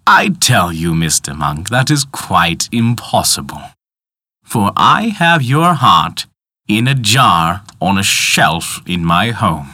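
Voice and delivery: slow, insistent villain; stern clockmaker voice. Acted. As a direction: insist with cold patience. Tick-tock man denies it.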